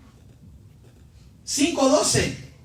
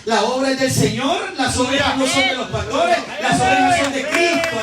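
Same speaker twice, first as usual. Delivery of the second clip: insistent pulpit delivery, rising at the end; emphatic preaching; 3 dB louder than usual. Real, not acted. Preacher telling the church whose work this is, emphatic preaching. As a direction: preach it forcefully, building to a climax. Preacher drives point to climax.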